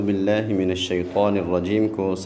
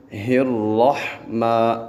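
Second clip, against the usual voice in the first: slow drawn-out الرحمن; slow recitation; much slower than usual. Shown as a demonstration. Teacher isolating الرحمن for pupils. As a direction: stretch الرحمن slowly. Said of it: "یہاں پہ دو تین غلطیاں ہیں".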